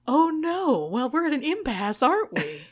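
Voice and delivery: smug villain voice. Retold or imitated.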